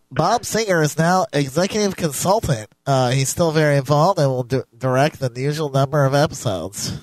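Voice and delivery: reading in a put-on nasal voice. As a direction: pinch it through the nose. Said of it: "Let me get my nasally voice going here".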